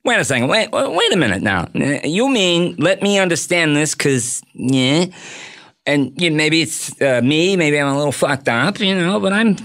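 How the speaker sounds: talk-show host as touchy mobster; stammering, lightly mock-offended impersonation; Jay Leno. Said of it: "the deep Jay Leno voice".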